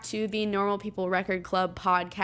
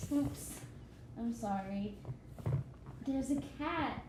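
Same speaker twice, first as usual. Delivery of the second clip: soft apologetic murmur; quiet; 13 dB quieter, slower than usual. Real, not acted. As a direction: drop to a hushed aside. Quiet aside after cat mishap.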